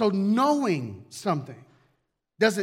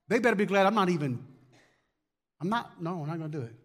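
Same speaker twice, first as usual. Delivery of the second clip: stubborn refusal. Acted. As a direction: play someone digging in, refusing to give. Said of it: "It's stubbornness".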